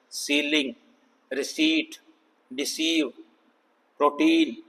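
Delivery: "सीलिंग, रिसीट, डिसीव, प्रोटीन" with long EE. Shown as a demonstration. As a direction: hold EE in each word, "सीलिंग" to "प्रोटीन". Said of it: "long ई".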